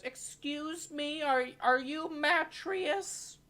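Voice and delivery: high, slow, timid polite voice; timid Jacques. Acted. Jacques timidly approaching the stranger, high and slow. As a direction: ask shyly and carefully. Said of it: "And he goes".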